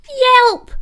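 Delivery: high, loud pained yelp; a sharp little puppy yelp of pain; hurt pup yelping. A narrator's reading. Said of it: "cried Poppy".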